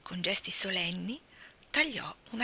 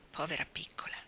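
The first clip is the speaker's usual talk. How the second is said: soft tender whisper, much softer; 3 semitones lower, 7 dB quieter than usual. A narrator's reading. Marilla whispering tenderly over sleeping Anna. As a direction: breathe it over the sleeping child. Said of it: "sussurrò".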